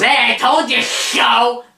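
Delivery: high, drawn-out mock gloating cry; taunting shout. Mimicking Rollins greeting the two backstage, gloating shout. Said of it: "and he goes".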